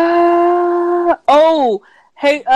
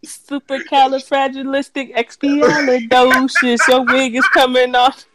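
mock Mary Poppins; 2 semitones lower than usual. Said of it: "Mary Poppins".

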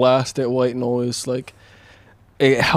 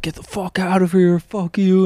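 sleep-talking cursing; 6 semitones higher than usual. Retold or imitated. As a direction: snap it out half-asleep and furious. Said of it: "I guess one time I was like".

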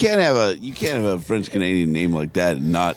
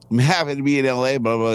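quick, tossed-off player greeting; flying through it; 4 semitones higher, faster than usual. Shown as a demonstration. Acting the player's video greeting, flying through it. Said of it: "he can fly through it".

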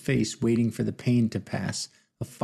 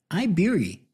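high, heavy put-on Asian accent; thick Asian accent; 8 semitones higher than usual. Elderly man introduces himself in thick Asian accent. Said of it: "in an Asian accent as thick as Texas toast".

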